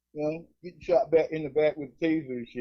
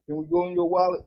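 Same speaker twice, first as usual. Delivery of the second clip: much higher, innocent-sounding question; squeaky cop request. Retold or imitated. Cop asking to search his wallet, sweet and high. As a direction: ask sweetly like a sly cop.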